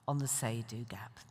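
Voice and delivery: hushed whisper, breath only. Real, not acted. Speaker to audience on the say-do gap, whispered. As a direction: drop to a whisper on the big question. Dramatic hushed end of question.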